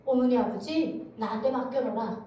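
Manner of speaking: unhurried reassurance in North Korean dialect; God. Retold or imitated. God taking over her worries for family, in North Korean dialect. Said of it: "북한 사투리로 저한테 응답을 주셨어요".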